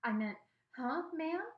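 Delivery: flustered question; surprised. A narrator's reading. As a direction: hastily correct yourself, pitch rising on the last word. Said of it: "looked surprised and said".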